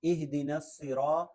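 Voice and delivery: "الصراط" with a thick Arabic saad; heavy saad. Shown as a demonstration. Teacher models saad for learners, heavy s in "الصراط". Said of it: "صاد پڑھنا ہے".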